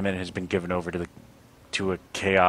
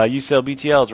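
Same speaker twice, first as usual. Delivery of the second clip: player character voice; 6 semitones higher, 7 dB louder than usual. Acted. Voicing player question.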